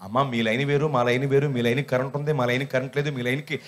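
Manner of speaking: lightly voiced lineman explaining; lineman pose. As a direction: explain the power lines like a know-all electrician. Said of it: "పెద్ద line మెన్లాగా అవతారం ఎత్తి".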